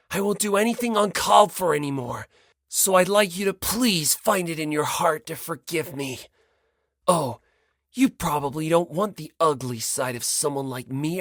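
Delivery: a hint of Komaeda, eager then fading; lightly voiced Komaeda, self-deprecating. Komaeda figure voiced at length.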